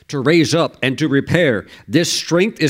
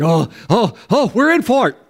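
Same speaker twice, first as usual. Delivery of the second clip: higher, mock worried "oh, oh"; mock dread; 7 semitones higher than usual. Preacher voicing listeners dreading God's consequences. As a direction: play the uh-oh of being in trouble.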